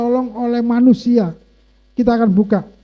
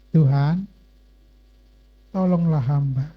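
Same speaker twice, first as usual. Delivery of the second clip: low, subdued plea to God; retold tearful plea; 4 semitones lower than usual. Preacher recalls begging God for his church, retold tearful plea. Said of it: "Saya menangis, Saudara".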